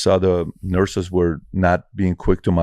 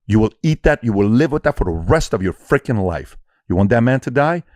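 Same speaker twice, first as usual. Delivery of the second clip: mock harsh self-scolding; 5 semitones higher than usual. Scolding himself, retold inner voice.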